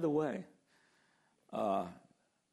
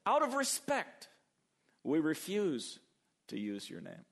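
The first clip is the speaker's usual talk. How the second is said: mock pious refusal; 3 semitones higher than usual. Preacher mocks scribes refusing God's name out of respect. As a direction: sound pious while backing away. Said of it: "And they say".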